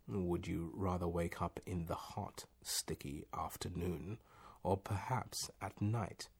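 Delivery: soft, measured concern. A narrator's reading. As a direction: ask gently, as if truly concerned. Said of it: "intoned the voice with concern".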